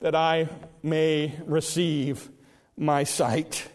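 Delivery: low, soft, halting request; humble plea with long pauses; Bartimaeus. Retold or imitated. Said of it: "And Bartimaeus said".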